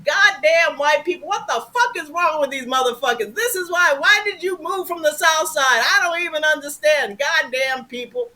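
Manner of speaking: high, loud angry mom ranting; mom screaming. Retold or imitated. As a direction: rant like a furious mother. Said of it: "she's screaming on the way upstairs".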